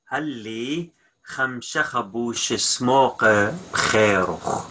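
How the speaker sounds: slow, every word distinct; careful slowed-down repeat; slow clear model. Shown as a demonstration. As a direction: lay it out slowly for learners. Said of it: "teacher repeats the full sentence slowly".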